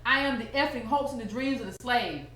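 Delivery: lightly voiced stately poet, measured; a hint of a solemn poet reciting; Maya Angelou voice. Speaker reciting a line in an Angelou voice, lightly imitated. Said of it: "in my Angelou voice".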